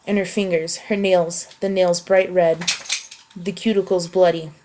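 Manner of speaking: a tense passage read from a book; story reading. Acted. Story narration continues.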